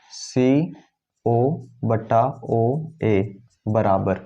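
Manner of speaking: whispers सीओ slowly while writing; whispered. Real, not acted. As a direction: breathes सीओ under the breath, drawn out. Teacher writing ratio on board.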